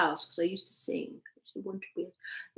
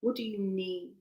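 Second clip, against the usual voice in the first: soft asking; 7 dB quieter than usual. Shown as a demonstration. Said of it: "ask your heart".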